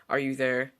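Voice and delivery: flat, emotionless voice; monotone voice. Acted. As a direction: ask it with no feeling. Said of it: "the monotone voice asked".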